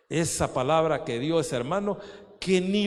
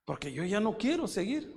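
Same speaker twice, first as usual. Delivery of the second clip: fearful plea; 2 semitones higher, 5 dB quieter than usual. Retold or imitated. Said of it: "un temor terrible".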